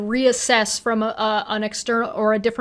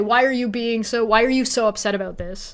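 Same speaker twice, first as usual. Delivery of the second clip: sounds offended and defensive. Acting out how people react when told something: imitating someone offended. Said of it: "they get offended, so they say".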